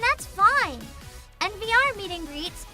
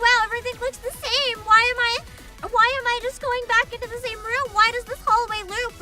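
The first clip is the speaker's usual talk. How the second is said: higher, louder puzzled complaint; mock bewilderment, pitched up; confused wonder; 5 semitones higher, 4 dB louder than usual. Streamer imagining herself lost on the iPad machine, mock confused.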